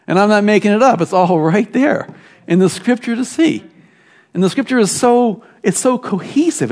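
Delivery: high-pitched, enthusiastic preaching; getting excited. Real, not acted. Preacher marveling to the congregation at how cohesive Scripture is, excited. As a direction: let real excitement lift your pitch. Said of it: "I'm getting excited".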